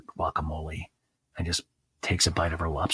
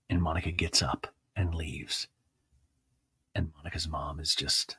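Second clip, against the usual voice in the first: hushed whisper for the exit; dramatic whisper; 4 semitones lower, 9 dB quieter than usual. Real, not acted. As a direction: whisper like the tension is thick. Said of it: "whispered dramatic narration".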